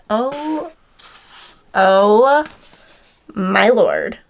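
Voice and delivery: amazed gasp. Real, not acted. Unboxing the surprise heart package.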